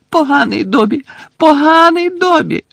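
high squeaking elf, scolding himself. Acted. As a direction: squeak in self-punishment. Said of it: "пищав він". (пищить, картаючи себе)

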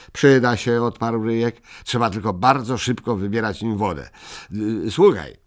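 lightly voiced small creature, bargaining; a hint of a sly little trader; mildly voiced Ryjek haggling; eager Ryjek.

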